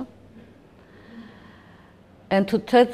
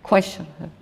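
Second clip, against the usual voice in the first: hard voice; 4 semitones lower, slower than usual. Retold or imitated. Officer ordering soldiers, in a hard stern voice. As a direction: bark it like a harsh officer giving orders. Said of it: "in very hard voice".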